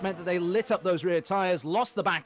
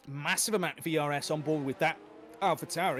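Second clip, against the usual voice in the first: talking through hiccups; words broken by hiccups; 3 dB quieter than usual. Real, not acted. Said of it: "I've got the hiccups at the minute".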